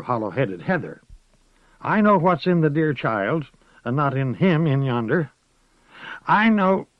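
put-on an old witch groping for words; old witch struggling to explain. A narrator's reading.

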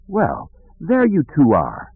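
high, drawn-out greeting; character greeting the twins. Acted. To the two children just found, drawn-out greeting. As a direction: stretch it out in a lifted voice.

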